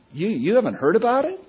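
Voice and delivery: lightly voiced, eager and high; a hint of an amazed churchgoer; excited church member. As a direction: act out the member's surprise at him.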